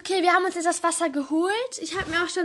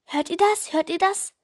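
calling out; 3 semitones higher, 4 dB louder than usual. Acted. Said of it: "riefen sie".

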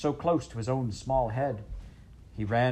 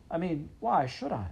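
defiant princess voice; 8 semitones higher than usual. Acted.

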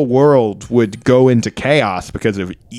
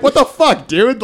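incredulous prisoner; 10 semitones higher than usual. Acted. Prisoners bicker over invented scares.

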